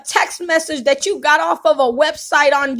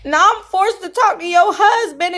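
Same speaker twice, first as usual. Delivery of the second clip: crying; 2 semitones higher than usual. Real, not acted. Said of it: "I'm sorry for crying".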